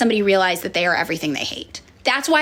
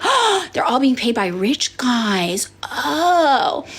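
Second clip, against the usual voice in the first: slow whispered revelation; awed whisper; 3 semitones higher, much slower than usual. Retold or imitated. Liberal finally getting it, slow awed whisper. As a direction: breathe it as the truth dawns. Sudden receptive realization.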